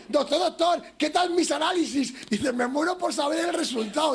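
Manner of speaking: voz de paciente más aguda. Retold or imitated. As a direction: imita al paciente impaciente. Paciente del chiste. (paciente impaciente, voz más aguda)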